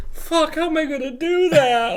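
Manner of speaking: high, loud squeaky freak-out; whiny panic voice. Retold or imitated. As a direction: panic like a helpless little nerd. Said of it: "Vakama's kind of a bitch boy".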